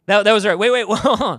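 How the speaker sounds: put-on loud, startled kids calling out; imitating children shouting wait; a father playing his shocked kids, loud; kids in disbelief. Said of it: "some of my kids like this".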